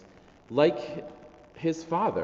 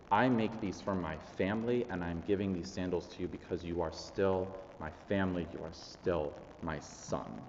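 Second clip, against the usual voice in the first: softer, lower, unhurried reassurance; gently reassure, sinking quieter and lower toward the end; tender affirmation; 3 semitones lower, 6 dB quieter than usual. Acted. Father giving sandals to his son, tenderly.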